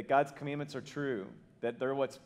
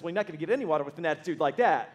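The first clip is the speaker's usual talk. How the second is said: offended husband; 3 semitones higher, 6 dB louder, faster than usual. Retold or imitated. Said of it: "the husband gets offended".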